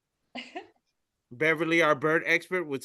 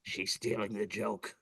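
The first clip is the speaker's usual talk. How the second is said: upset; 8 semitones lower, 10 dB quieter than usual. Retold or imitated. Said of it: "he looks very upset and says".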